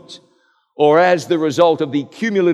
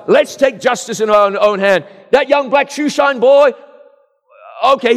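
louder, higher, mock-furious mob voice; imitating a furious lynch mob, raised and higher; vengeful mob voice; 6 semitones higher, 5 dB louder than usual. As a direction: voice the angry crowd out for revenge. Voicing vengeful mob mentality.

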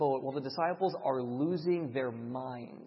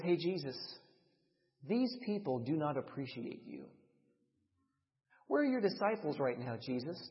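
devil's whisper; 3 semitones lower, 5 dB quieter than usual. Retold or imitated. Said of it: "The devil starts whispering in his ear".

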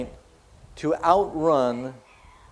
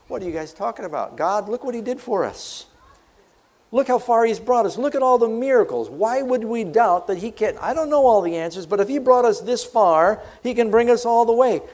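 rising bold rebuttal; 6 semitones higher than usual. Acted. Joshua and Caleb answer the doubters.

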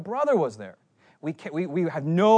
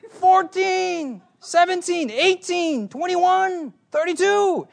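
put-on high, loud child's counting; kid counting out loud; 14 semitones higher, 6 dB louder, much slower than usual. Little brother keeps counting restaurants, high and loud. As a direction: call each number like a sulking kid.

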